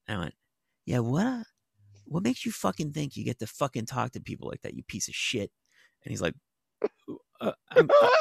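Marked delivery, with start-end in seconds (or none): 0.8-5.5 retold angry confrontation. Retells her confronting the man. 7.4-8.1 mock scared stammer. The man stammers in fear.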